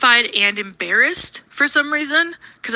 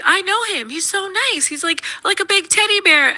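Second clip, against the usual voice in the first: higher, gushing disbelief about a nice guy; mock adoring friend, pitched up; 9 semitones higher than usual. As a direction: coo it like defending a sweetheart. Friend gushes about Jelly Roll.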